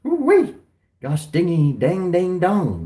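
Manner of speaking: loud high hot-pepper yelp; spice reaction. Retold or imitated. Recalling the Carolina Reaper jerky, loud high yelping. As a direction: yelp like your mouth is on fire.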